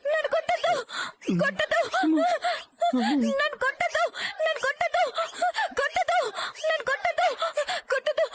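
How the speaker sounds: high frantic begging, don't hit me; terrified pleading in sleep. Acted. Wife screaming in a nightmare, begging not to be hit, high and frantic. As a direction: cry out from a nightmare, begging to be spared. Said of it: "ఎందుకలా అరిచావు".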